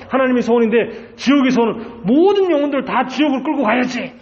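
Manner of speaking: high, impassioned preacher's voice; full-force preaching. Real, not acted. Preacher warns the congregation of Satan's aims, full-force preaching. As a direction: preach it urgently, pitched well up.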